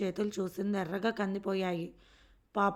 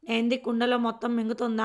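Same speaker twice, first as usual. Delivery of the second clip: louder, spiteful grumble; sneering curse; 4 dB louder than usual. Acted. Anjamma jeering to herself about the girl's appetite. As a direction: scoff at her greed under your breath. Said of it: "అని తిట్టుకుంది లోపల అంజమ్మ".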